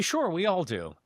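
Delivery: put-on a light old ad pitch; seventies TV ad voice. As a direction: finish the commercial line cheerfully. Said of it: "That's a callback from the seventies".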